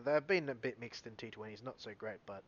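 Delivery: tripping over words; stumbling, halting speech; stuttering. Real, not acted. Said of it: "I'm stuttering on my words here".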